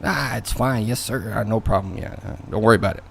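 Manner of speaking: quiet, hurried, easygoing reassurance; acted eager-to-please politeness; accommodating. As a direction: brush it off softly and quickly to please. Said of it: "You might care, but you're still gonna, you know, try".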